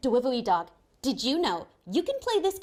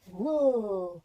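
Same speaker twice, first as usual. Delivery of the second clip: amazed whoa; 6 semitones lower, 3 dB louder than usual. Pretend. Looking through pretend telescope.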